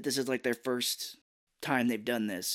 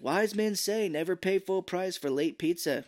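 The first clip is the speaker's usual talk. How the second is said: higher, slow sage tone; mock proverb; 6 semitones higher than usual. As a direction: deliver it like wisdom. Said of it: "one of his famous lines".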